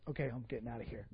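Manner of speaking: low, soft, under the breath; quiet relieved aside. Retold or imitated. Preacher leaving the scene, hushed aside. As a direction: slip away muttering to yourself.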